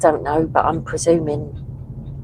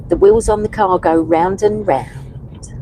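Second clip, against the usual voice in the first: whispered. Real, not acted. Reading chat song lyric aloud.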